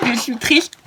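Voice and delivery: a lightly put-on pouty little voice; a hint of a sad little cartoon voice; sulky little voice. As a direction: play at being a sulking child, only half in character. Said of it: "arrête, Christelle, de faire des voix".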